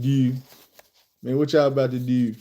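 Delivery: imitated Baltimore talk, fronted vowel in "do"; Baltimore accent. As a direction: mimic Baltimore speech on "Do". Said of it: "That's Baltimore".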